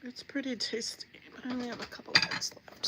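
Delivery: chewing between phrases; chewing while talking. Real, not acted. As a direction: talk through a bite. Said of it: "won't be eating in your ear".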